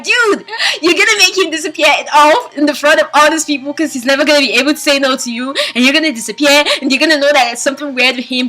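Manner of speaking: venting at the screen; scolding a character. Retold or imitated. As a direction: tell her off like a friend.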